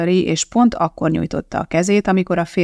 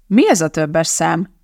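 snapping; slower than usual. Acted. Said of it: "csattant fel Donatti".

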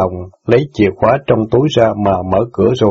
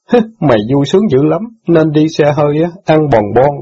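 a lightly voiced resentful boy, higher and scornful; sneering boy; 6 semitones higher than usual. Brother mocks sister for riding in cars, lightly voiced and scornful. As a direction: jeer at her with a hint of a sulky teen.

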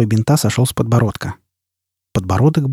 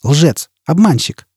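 hurled insults; 5 semitones higher, slower than usual. Acted. Jiz hurls insults at Foyle.

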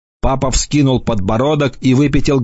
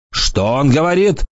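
higher growled question; lightly growling angry farmer; 5 semitones higher than usual. A narrator's reading. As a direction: demand it with a mild growl. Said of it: "прорычали вилы".

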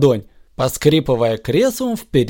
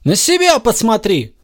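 cry out; 7 semitones higher than usual. A narrator's reading. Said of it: "вскричал Захар".

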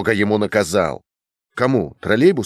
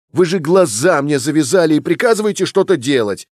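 higher-pitched narrated shout of protest; 7 semitones higher, 3 dB louder than usual. A narrator's reading. Fyodor protests to the academic, crying out in a raised voice. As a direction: cry out that you've been blindfolded and ordered about. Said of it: "закричал Фёдор Иванович".

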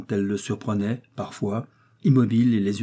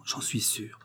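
very soft; 10 dB quieter, slower than usual. A narrator's reading. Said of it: "lui disait doucement".

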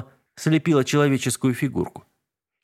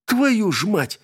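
much higher, sharp curse; swearing in pain; 9 semitones higher, slower than usual. A narrator's reading. Witch's son scratched by the cat, sharp curse. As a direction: curse as the claws rip his hand. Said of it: "выругался ведьмин сын".

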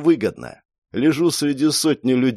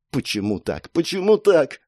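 agitated muttering; 5 semitones higher than usual. Acted. Girl fumbles the ritual, agitated muttering. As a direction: mutter it, then let panic push it up. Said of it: "бормотала девушка".

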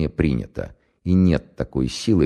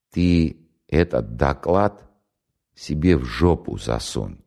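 quiet fury; slower than usual. Acted. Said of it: "тихо, свирепо оборвал его вождь".

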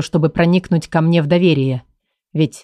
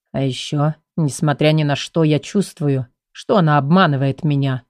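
low cold voice; 4 semitones lower than usual. Acted. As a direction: speak low and icy, holding back. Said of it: "продолжал мужчина низким холодным голосом".

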